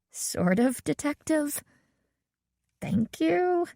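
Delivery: dry mock thanks; ironic, a little put out; Nancy to the girl, a hint of wry irony. A narrator's reading. Nancy ironic at faint praise.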